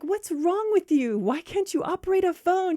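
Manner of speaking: high-pitched indignant demand; exasperated friend. Acted. Friend berates the one fumbling her phone, exasperated. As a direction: berate her in mock disbelief. Acted quarrel, demanding answer.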